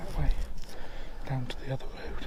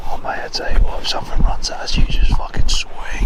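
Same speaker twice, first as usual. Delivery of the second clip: whispering. Real, not acted. Fearful talk near the noise.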